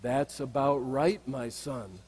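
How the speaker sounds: quiet, unhurried monk trailing off softly; a hint of a serene old teacher; calm monk reply.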